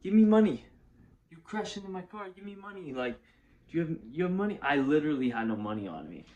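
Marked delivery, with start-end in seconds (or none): 0.0-4.6 demanding truck driver. Retold or imitated. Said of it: "and he's like".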